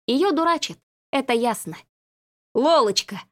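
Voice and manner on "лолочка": relieved, happy call of her name; light joy as she opens her eyes; glad exclaim. A narrator's reading. Marquis relieved Lola woke up, gladly exclaiming. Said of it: "обрадовался маркиз номер один".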